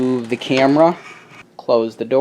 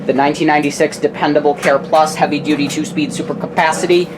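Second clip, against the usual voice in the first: sports announcer. Acted. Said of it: "I sound like a sports announcer".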